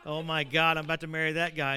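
a bride's mild horrified groan; mock dismay. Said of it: "she comes walking up toward me like this".

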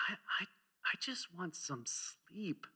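very soft, slow, weary murmur; exhausted parent. Retold or imitated. Tired parent thinking in the pew, very soft and slow. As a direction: sigh it out, too tired to care.

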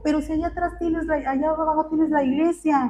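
a hint of a puzzled mom asking why; mildly imitating a worried mother; mother's voice. Mother voiced questioning her daughter.

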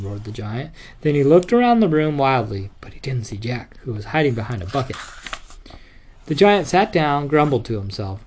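lively bedtime story read; story narration. Acted. Dad reading Jack and the Beanstalk to his son, lively storytelling. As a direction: read it out to a little boy.

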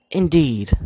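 high, loud theatrical agreement; dramatic cry. A narrator's reading. White Queen playing along for the fairies, dramatic. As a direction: declaim it like a bad actor. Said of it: "the White Queen cried dramatically".

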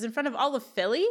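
retold surprised question, tune rising at the end. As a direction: echo it back as a mildly surprised question. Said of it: "Rebecca's surprised".

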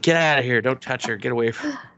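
mock scolding outburst, loudest at the start; sharp start, easing off; protective scolding. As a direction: shoo someone off in an acted quote. Acted warning to back off.

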